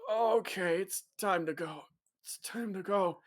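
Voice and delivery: half-whispered mumble; mumbled. Acted. Man getting up and mumbling to leave, mumbled. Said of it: "mumbles up".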